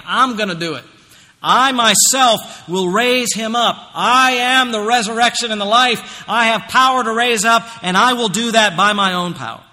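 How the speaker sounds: loud, high, slow proclaiming voice of Jesus; emphatic voice of Jesus. Acted. Pastor voicing Jesus's promise to raise believers, loud and emphatic. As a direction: speak as Jesus promising with full force. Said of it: "That's emphatic again".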